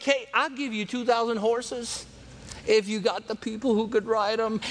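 lightly acted taunt to a weaker enemy; trash talking. Envoy taunts enemy with two thousand horses, trash talking. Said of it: "he keeps on trash talking".

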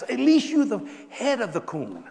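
laughing through the punchline; can't hold back the laugh as you land it. Real, not acted. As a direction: delivers the joke laughing.

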